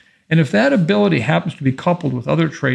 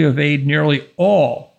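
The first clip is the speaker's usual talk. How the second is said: slow, with all leaned on hard; stress on all. Real, not acted. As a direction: hit the word all and hold it. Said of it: "and I want to emphasize the word all".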